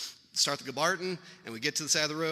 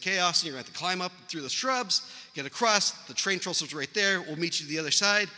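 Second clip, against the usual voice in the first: higher, slightly raised instructing voice; lightly imitated call-out; calling across a river; 4 semitones higher than usual. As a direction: act out calling directions to someone far away.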